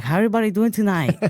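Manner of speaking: put-on high comedic Asian accent; Asian accent impression. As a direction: play a nervous stand-up with an Asian accent. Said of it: "an Asian dude going up at the Apollo".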